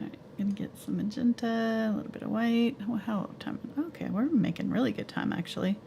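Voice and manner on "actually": usual speaking voice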